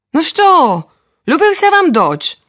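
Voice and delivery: high eager father; proud father. Acted. Father expecting praise from the children.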